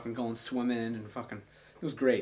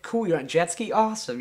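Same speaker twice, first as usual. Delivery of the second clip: excited; 5 semitones higher, 6 dB louder than usual. Retold or imitated. Parents cheering on phone.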